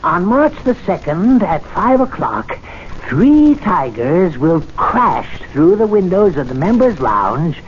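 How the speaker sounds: to his wife, reading out the prank notice grandly. Pretend. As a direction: declaim the prank notice with relish. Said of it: "Listen to this".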